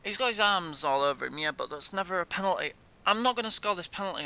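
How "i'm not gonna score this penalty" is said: fast gloomy. Real, not acted.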